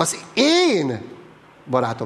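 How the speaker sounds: én emphasized, barátom said lightly. Showing where emphasis falls in 'az én barátom', stress on 'én'. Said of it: "Nem a barátomon van a hangsúly, hanem az én barátom".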